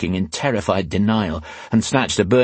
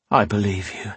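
understated, seething menace; icy and controlled; cold hatred. A narrator's reading. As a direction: say it with cold, contained hate. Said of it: "in a voice so cold and seething with hate".

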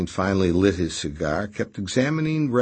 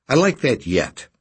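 affectionate; 6 semitones higher, 5 dB louder than usual. A narrator's reading. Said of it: "said Raspy affectionately".

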